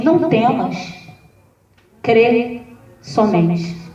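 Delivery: Jesus calming the frightened father; calm reassurance. Retold or imitated. (tranquilizador, mais grave e suave)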